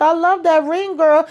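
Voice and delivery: high, sugary imitation of a woman admiring a ring; high girlish put-on; mock sweet compliment. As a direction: voice her in a high fake-sweet tone. Gossip quote voicing a woman.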